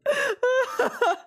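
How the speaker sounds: very high embarrassed squeal of a laugh; high-pitched giggle fit. Real, not acted. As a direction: shriek with laughter at yourself. Laughs after realising on stream.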